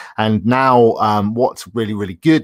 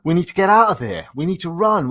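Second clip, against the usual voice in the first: mock panic; 7 semitones higher than usual. Acting a fire alarm panic.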